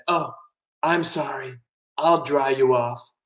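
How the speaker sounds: soft, slowing apology; apologetic octopus. Acted. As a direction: offer help gently and slowly. Octopus apologizes and offers help.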